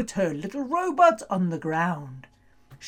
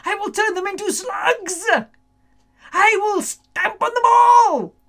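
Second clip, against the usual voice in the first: rising to a high, loud stomp; gleeful witch threat; 10 semitones higher, 5 dB louder than usual. Acted. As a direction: threaten them with glee. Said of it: "the witch said".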